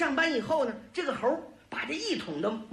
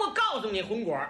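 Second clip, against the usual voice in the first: plain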